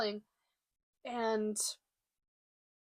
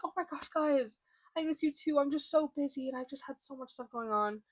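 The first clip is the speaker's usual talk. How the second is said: put-on breezy excuse; 4 semitones higher than usual. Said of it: "I'm just lying right to their faces".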